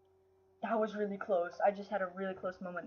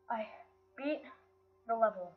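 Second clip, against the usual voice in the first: halting, a pause after each word; word-by-word disbelief. Real, not acted. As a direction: let it sink in, word by word. Repeats the win word by word.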